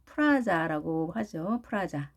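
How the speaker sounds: 프라자 with R and full ah vowels; Japanese-style pronunciation. Shown as a demonstration. Teacher showing the habit to drop, Japanese-style 프라자. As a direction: say 프라자 as a loanword, peu-ra-ja. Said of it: "완전히 일본식 발음입니다".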